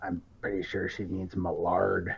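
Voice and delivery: soft, half-whispered aside. Voicing a character who leans over to Junker: half-whispering. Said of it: "kinda whispers to Junker".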